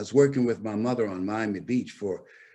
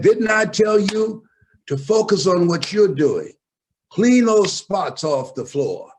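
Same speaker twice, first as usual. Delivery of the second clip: irritated mother; 10 semitones higher, 8 dB louder than usual. Retold or imitated. Mother scolding her son to keep scrubbing, loud and irritated. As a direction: snap at the boy to get back to work. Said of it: "now she's irritated".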